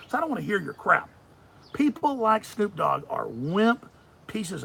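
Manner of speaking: loud angry tirade, slowed on the insults; loud call-out. Real, not acted. Host calling out a rapper, loud and furious. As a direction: hammer each accusation at him.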